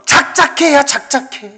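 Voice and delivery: high, exasperated nagging; acted impatient put-down; worldly discouraging. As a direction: tell someone to knock it off. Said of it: "뭐 이렇게 얘기할 때".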